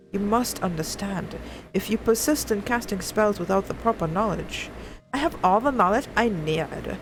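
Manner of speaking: lightly acted stern mentor and defiant girl; a hint of a headstrong young girl; voiced game dialogue. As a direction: read the argument with some spirit. Voicing NPCs in game cutscene.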